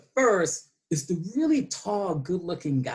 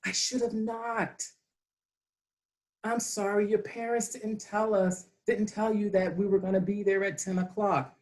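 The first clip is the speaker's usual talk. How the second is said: mock apology; 3 semitones higher, 3 dB quieter than usual. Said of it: "I started to say".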